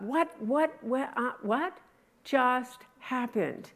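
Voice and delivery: high, stammering what what what, then a slow just happened; stunned shepherds. Retold or imitated. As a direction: play the shepherds caught off guard.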